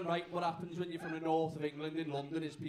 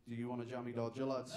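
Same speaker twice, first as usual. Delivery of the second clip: Scouse accent demo; 5 semitones lower, 5 dB quieter than usual. Shown as a demonstration. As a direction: shout it in a thick Scouse accent, like it sounds illegal. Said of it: "I'll show you".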